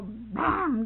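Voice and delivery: sudden emphatic bang; imitated table bang. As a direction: hit the word like a table slap. Imitates hand hitting the table.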